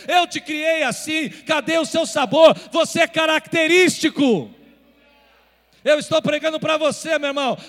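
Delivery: shouted, high preaching climax; roaring pulpit call to stand tall; full-force preaching. Acted. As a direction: preach it out at the top of your voice.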